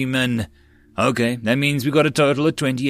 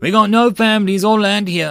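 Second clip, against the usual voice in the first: loud, raised shouting yell; 8 semitones higher, 5 dB louder than usual. Someone in the crowd yells back at the call to fight for the city. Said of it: "someone yelled".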